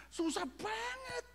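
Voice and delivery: high, drawn-out squeeze on the words; exaggerated difficulty. Real, not acted. Preacher admitting the supernatural is hard, exaggerated strain.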